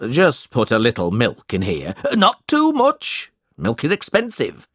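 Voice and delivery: lightly voiced miserly schoolmaster; a hint of a penny-pinching schoolmaster; stingy schoolmaster.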